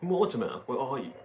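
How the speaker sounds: high call for someone. Real, not acted. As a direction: call his name out. Calling out for Mortimer.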